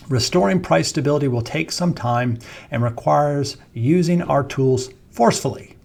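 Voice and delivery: weighty reading, FORCEFULLY set apart and stressed; added emphasis. Real, not acted. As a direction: quote it deliberately, punching the key words like "forcefully". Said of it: "I'm adding emphasis".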